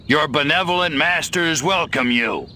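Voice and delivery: booming announcement to the humans; loud alien proclamation. Acted. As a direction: proclaim it like a conqueror over loudspeakers. Alien broadcasting to Earth creatures.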